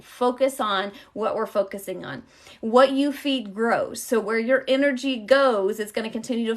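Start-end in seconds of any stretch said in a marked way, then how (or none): 2.6-4.0 slow emphasis. Acted. Slow spiritual point.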